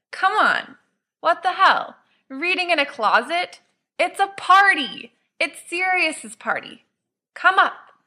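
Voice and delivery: put-on high, pushy drunken coaxing; tipsy insistence. Drunk James coaxing Remus out of the closet, high and pushy. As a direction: chivvy him out like a drunk friend.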